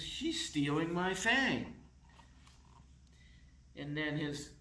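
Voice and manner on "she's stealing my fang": high, louder tattling cry; upset complaint. Acted. Little vampire tattling to his parents, higher and louder. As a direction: call out for mom and dad. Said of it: "And he says".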